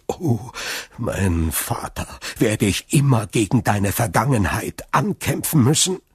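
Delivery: lament, then swell into protest; anguished lament. Acted. Prosecutor reproaches his absent father's past, anguished.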